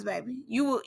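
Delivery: usual speaking voice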